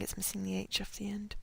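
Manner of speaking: quiet unvoiced aside; whispered aside. Real, not acted. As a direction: murmur it to yourself. Aside about a typo, whispered.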